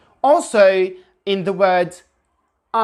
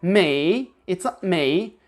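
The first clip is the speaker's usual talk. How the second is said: me going up in pitch, British style; British rising me; slower than usual. Shown as a demonstration. Teacher repeats the rising British me. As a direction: let me rise again. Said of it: "and again they go up".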